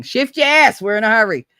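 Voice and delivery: loud, high command to hurry; bossy shout. Shown as a demonstration. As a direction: bark it like hurrying people along. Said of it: "I would usually say shift your ass".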